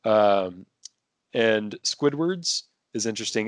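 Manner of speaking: ordinary talk, nothing marked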